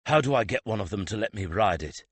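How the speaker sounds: loud words forced through tight jaw; barely contained anger, teeth clenched. Acted. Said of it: "got out around clenched teeth".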